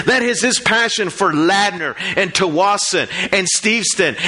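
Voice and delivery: emphatic, rhythmic sermon cadence; building list delivered with preacher's conviction; impassioned preaching. Real, not acted. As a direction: drive each repeated phrase home to the congregation.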